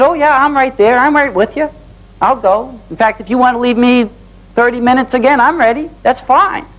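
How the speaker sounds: high, bright-eyed eager yes; eager boy. Retold or imitated. Young son telling his dad he's ready to go, excited. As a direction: pitch up like a thrilled kid jumping at the chance.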